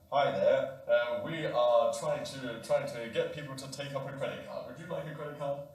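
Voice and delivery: lightly voiced phone seller, hesitant; hesitant pitch from a caller; credit card caller. Credit card seller calling the old man, lightly voiced.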